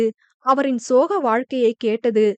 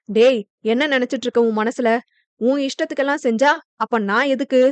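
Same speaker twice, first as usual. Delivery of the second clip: a mild stern father, fast and firm; faster than usual. Acted. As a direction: scold the son, quick and hard. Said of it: "என அவர் கடுமையான குரலில் கேட்க". (கண்டிப்பான குரலில் வேகமாக)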